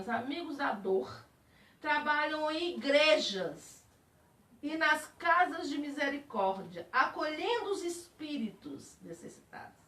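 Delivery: slow, deliberate reading; reading aloud. Shown as a demonstration. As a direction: read the text out carefully. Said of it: "Aí tá lá assim". (leitura lenta e solene)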